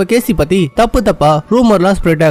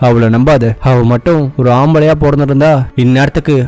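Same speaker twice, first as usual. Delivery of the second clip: stern father; 5 semitones lower than usual. Retold or imitated. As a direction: warn him gravely like an old father. Chairman warns son about wife.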